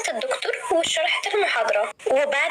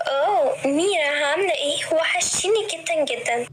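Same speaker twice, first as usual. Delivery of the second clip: flirty; 2 semitones higher than usual. Acted. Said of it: "بتتكلم بدلع وهي بتقول".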